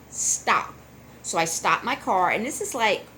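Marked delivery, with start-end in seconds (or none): 0.1-0.7 a breathy whispered stop, no voice; whispered inner voice. Retold or imitated. Inner voice tells her to stop while driving, whispered. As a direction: hush it like a voice in your head.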